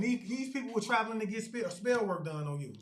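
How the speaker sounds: real stumble over the words; stuttering. Real, not acted. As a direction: trip and restart on words. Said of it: "Y'all see how I'm stuttering".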